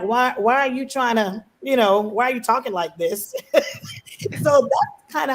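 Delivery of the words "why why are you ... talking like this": a hint of annoyed scolding; lightly voiced frustration at the cousins; mild mock exasperation. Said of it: "I would actually get mad at them because I'm like".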